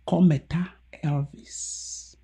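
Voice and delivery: slow unvoiced whisper of a name; whispered secret. Real, not acted. Telling viewers a secret name, whispering. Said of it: "Make I tell una secret".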